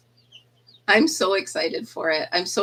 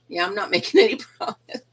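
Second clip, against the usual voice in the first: imitating the cheeky kid through a laugh; laughing as she retells the line; kid quote, laughing; faster than usual. Retelling the fourth grader's promise, breaking into laughter. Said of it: "He just leans back like".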